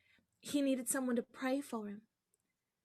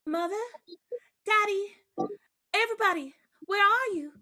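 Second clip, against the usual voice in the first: higher, louder call through the house; 7 semitones higher, 5 dB louder than usual. Acted. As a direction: call out to find the family. Girl returns, calls family.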